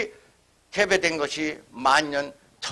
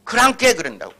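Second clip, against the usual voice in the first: Honam dialect; 4 semitones higher, 4 dB louder than usual. Retold or imitated. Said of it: "호남 사람은 그랑께라고 합니다".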